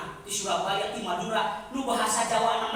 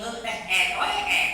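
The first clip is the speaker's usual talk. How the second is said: mock Batak accent, a little louder; Batak accent imitation; 5 dB louder than usual. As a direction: imitate a Batak speaker fumbling Sundanese sounds. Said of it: "Orang Batak hese yang ngomong".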